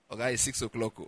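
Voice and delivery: low, soft, spent voice; drained after the token prayer; feeble mock relief. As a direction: weakly announce the fast is over. Ends mock prayer, still lying down.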